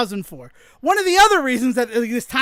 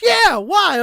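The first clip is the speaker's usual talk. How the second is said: imitating Joe; 9 semitones higher, 6 dB louder than usual. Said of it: "And he goes".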